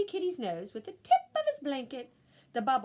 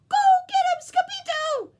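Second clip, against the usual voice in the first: much higher, loud shout; cheering cry; 12 dB louder than usual. Acted. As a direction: cheer him on. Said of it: "cried the Puchitos".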